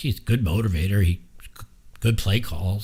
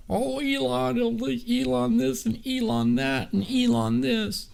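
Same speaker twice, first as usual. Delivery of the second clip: much higher whiny mock voice, dragged out; mocking outraged liberals; 4 dB quieter, slower than usual. Streamer mocks upset Democrats, high whiny parody. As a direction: squeal it like a silly outraged fan. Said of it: "has got them outraged".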